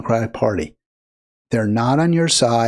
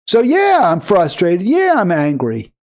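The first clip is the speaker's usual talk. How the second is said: voicing her anger; 4 semitones higher, 4 dB louder than usual. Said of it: "Wouldn't that be nice if she said that".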